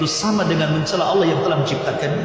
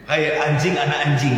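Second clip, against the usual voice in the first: lower-pitched, mild address; gentle; 5 semitones lower than usual. Retold or imitated. Father teaching his son to address a dog, gently. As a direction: say it gently, without any harshness. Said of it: "ucapkan dengan kalimat yang lembut".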